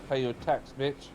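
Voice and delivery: put-on light London roadman accent, half-hearted. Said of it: "I do my roadman voice of".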